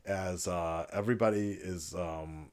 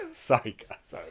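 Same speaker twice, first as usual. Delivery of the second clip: laughing apology. Real, not acted. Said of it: "the moment I started smiling".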